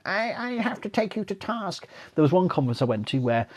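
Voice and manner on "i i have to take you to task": stern objection. Retold or imitated. Mock confrontation at conference.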